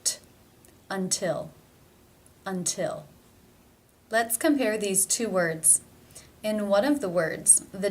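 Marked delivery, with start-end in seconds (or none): 0.0-3.0 "Until" with a true released T; real T. Shown as a demonstration. Teacher showing T opening a stressed syllable, real T in "Until". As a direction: sound the T, then start the stressed syllable of "Until" with it. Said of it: "pronounced as the real T".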